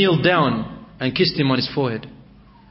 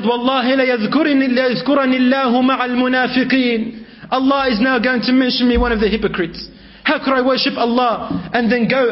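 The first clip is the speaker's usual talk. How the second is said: high, hurried lament of dread; mild fearful wail, pitched high; 7 semitones higher, faster than usual. Retold or imitated. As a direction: rush the words out high in fear. Tha'laba fears divine exposure.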